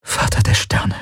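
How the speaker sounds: hushed, voiceless whisper. A narrator's reading. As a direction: whisper it as a stunned oath. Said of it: "flüsterte sie". (geflüstert)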